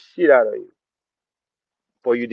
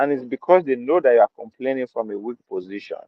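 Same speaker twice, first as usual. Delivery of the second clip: normal talking voice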